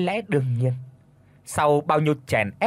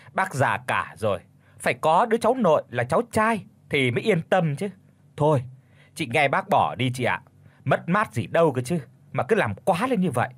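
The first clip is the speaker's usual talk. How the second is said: put-on sly young woman; 3 semitones higher than usual. Sly cousin voiced in story.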